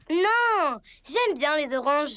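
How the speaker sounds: whimpering protest over the oranges; upset little sob in the voice; whiny crying. Acted. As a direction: whine it close to tears. Child insists on oranges, upset.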